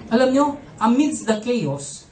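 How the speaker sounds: ordinary talk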